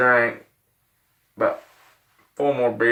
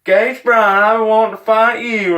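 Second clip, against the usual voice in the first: retold challenge; 10 semitones higher, 6 dB louder, slower than usual. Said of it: "but I heard".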